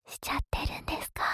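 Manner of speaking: breathy whisper into the ear. Acted. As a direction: whisper it playfully, close up. Teasing whisper.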